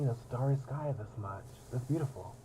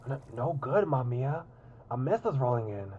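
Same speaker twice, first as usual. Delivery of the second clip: pirate voice; 4 semitones higher, 5 dB louder than usual. Acted. Mamiya character voice lines.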